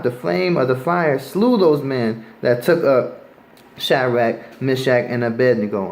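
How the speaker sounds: preacher reading scripture to the street crowd. Acted. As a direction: read the King James verse aloud with weight. Reads the furnace verses.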